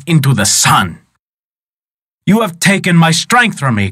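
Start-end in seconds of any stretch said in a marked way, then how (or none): 2.2-3.9 higher, mildly fearful cry; a beaten wizard crying out in fear; frightened cry. Acted. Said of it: "cried Schlipme in fear".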